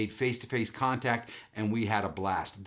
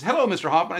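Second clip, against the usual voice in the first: higher, louder lilt imitating an agent; lovely voice; 7 semitones higher, 6 dB louder, much faster than usual. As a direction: play the pleasant airline caller on the phone. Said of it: "was a lovely voice".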